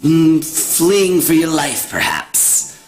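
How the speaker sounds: lightly voiced mocking hag; a hint of a cackling crone, taunting. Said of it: "gotta do it with a hag voice".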